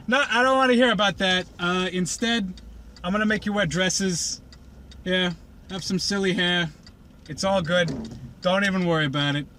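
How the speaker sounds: a lightly voiced fast, airy fashion diva; Rarity waving off Twilight, hurried and airy; hurried mock diva. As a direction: rush past her like a vain dress designer.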